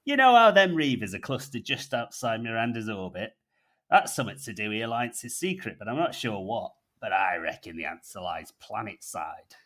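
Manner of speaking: lightly voiced Yorkshire grump; gruff North Yorkshire. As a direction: grumble it in a rough Yorkshire accent. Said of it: "in his gruff North Yorkshire tone".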